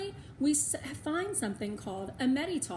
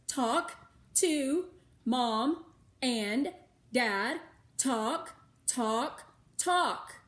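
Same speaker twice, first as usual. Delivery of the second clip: urgent; 2 semitones higher, 4 dB louder, much slower than usual. A narrator's reading. Melody urging through pointing.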